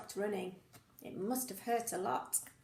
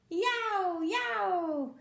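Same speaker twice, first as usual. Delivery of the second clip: loud high yow; playful yelps; excited high yelps; high yow cries; 7 semitones higher, 3 dB louder than usual. Acted. Recap of noises.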